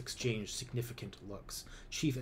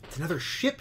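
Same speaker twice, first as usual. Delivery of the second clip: raised, louder cry of discovery; excited exclaim; 6 semitones higher, 6 dB louder than usual. A narrator's reading. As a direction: call it out as she spots the ship. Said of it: "she exclaims".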